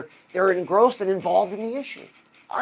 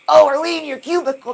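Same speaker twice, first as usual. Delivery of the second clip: loud, high exclaimed question; mock surprise; 6 semitones higher, 8 dB louder than usual. Speaker teases audience hiding in cubicles, mock surprise.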